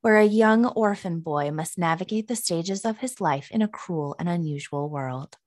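dramatic movie-trailer announcer. Pretend. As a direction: read it like a big trailer voiceover. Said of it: "I have, like, my announcer voice on right now".

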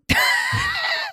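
squeaky high laugh; high squealing laugh. Real, not acted. Laughs after the quote.

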